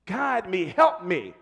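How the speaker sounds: loud, high, urgent complaint to God; acting out a frustrated man demanding answers from God; frustrated plea. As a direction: fire off exasperated questions, pitched well up. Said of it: "He was so frustrated. He's talking to God".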